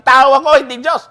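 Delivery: "Tao" blasted high and loud; loud mock declaration with all the weight on "Tao"; stress on tao. Shown as a demonstration. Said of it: "hindi niya sinasabi". (pasigaw na diin sa "Tao")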